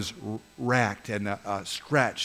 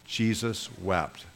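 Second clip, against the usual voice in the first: slow recitation; recited together; slower than usual. Shown as a demonstration. Pastor leads the congregation reciting the verse, slowly. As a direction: say "Jesus wept" slowly, word by word with the room. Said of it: "Can you say it with me?".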